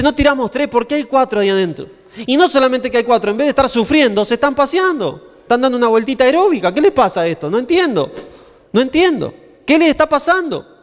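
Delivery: lightly acted astonishment, pitch climbing at the end; mock alarm. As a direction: play a king who can't make sense of it. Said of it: "se espanta".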